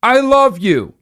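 high, loud sing-song love call; mock creepy declaration; hammed-up villain. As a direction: yell it sweetly after the fleeing woman. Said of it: "and he says".

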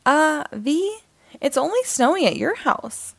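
uneasy, pointing out something odd; concerned. Acted. Neighbor Poppy points out the snow only at V's house, concerned.

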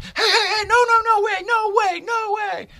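shrill up high and shout them down; hammed-up kid guard yelling no way. Kid guard blocking the car.

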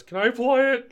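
high, loud wife voice; imitating eager wife. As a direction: mimic her eager request, way up high. Wife's request voiced in story.

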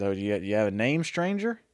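put-on light Southern accent, rising on stranger. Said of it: "I'm doing a southern accent".

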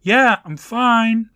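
high, loud, drawn-out call; yelling out. A narrator's reading. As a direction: call it through a door, stretching each word. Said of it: "and he yells out".

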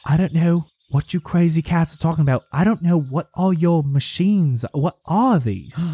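bewildered villager. Acted. Farmer confronted with strange machines, bewildered. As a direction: protest in bewilderment, dragging out the final question.

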